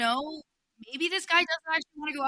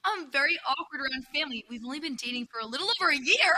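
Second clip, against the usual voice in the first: put-on whiny baby voice; 2 semitones higher, 3 dB louder than usual. Shown as a demonstration. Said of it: "You can't get the whiny baby voice".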